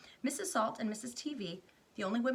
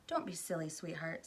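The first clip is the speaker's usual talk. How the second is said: gentle soothing; 3 semitones lower than usual. Acted. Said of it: "said soothingly".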